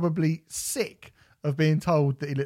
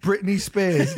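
mock excited fan; 5 semitones higher, 4 dB louder, slower than usual. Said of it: "people ... gone".

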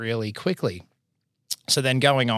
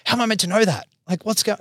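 incredulous; 10 semitones higher, 3 dB louder than usual. Retold or imitated. Retold outrage at Greg.

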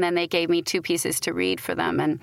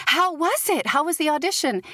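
husband asking; 7 semitones higher than usual. Retold or imitated. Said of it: "he's like".

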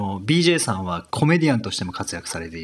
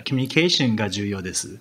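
English-accented Japanese; 2 semitones lower, faster than usual. Shown as a demonstration. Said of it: "for example".

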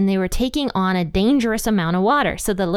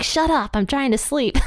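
mild mock yell; 6 semitones higher than usual. Woken Jesus rebuking the wind, mild mock yell. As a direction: imitate a grumpy sleeper's yell, half-hearted. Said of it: "So he yelled at the wind".

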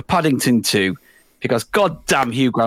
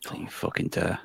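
hissed threat; 5 semitones lower, 13 dB quieter than usual. Acted. Heckling the nominee list.

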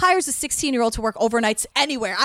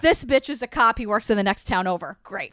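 mock disbelief. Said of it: "they're like".

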